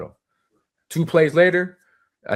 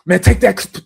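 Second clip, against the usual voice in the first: raised, higher mock bellow; retold taunt; 8 semitones higher, 6 dB louder, slower than usual. Lineman to freshman ball carrier, retold loud taunt. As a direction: tell off a rookie, imitating the lineman.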